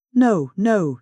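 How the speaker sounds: high, loud wail of denial. A narrator's reading. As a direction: wail it out in despair. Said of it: "she wailed".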